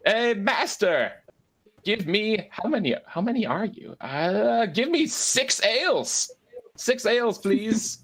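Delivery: high, drawn-out call to the barkeep; Perrin. Acted. High-spirited Perrin orders ales from the barkeep, high drawn-out call. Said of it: "turns around to the barkeep and says".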